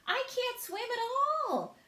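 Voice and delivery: high, loud, slow frightened cry; cried in fear. A narrator's reading. Ladybug crying out in fear that she cannot swim. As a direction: cry out that you'll drown. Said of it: "cried the ladybug".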